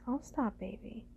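ordinary delivery

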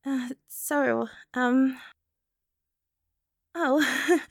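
ordinary delivery

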